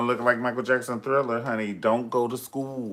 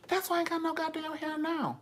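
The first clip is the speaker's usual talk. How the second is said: laughing high punchline; 4 dB quieter than usual. Real, not acted.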